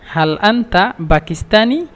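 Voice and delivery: slowed-down model phrase; slow repeat. Shown as a demonstration. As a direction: say it again slowly for learners.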